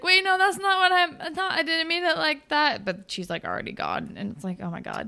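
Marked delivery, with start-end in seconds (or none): 0.0-2.9 higher, louder hurried backpedal; panicked boy. Retold or imitated. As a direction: scramble to take it back.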